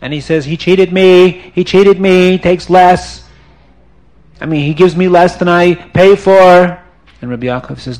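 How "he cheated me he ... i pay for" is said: mild upset accusation. Acted. Salim accuses to police.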